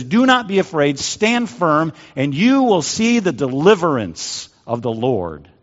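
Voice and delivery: emphatic proclaiming as Moses; stirring preacher's call to courage; proclamation. Acted. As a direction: proclaim it firmly to the people. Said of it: "he proclaims to the Israelites this".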